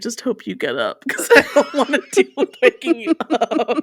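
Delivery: laughing through her own quoted worry; laughing quote. Retold or imitated. Retelling her worry about waking her friend, laughing. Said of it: "and I'm like".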